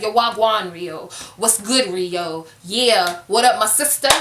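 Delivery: lightly imitating cast members putting on street slang; mock slang greeting. Cast member greeting the only black castmate, mock slang. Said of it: "I must speak just like she".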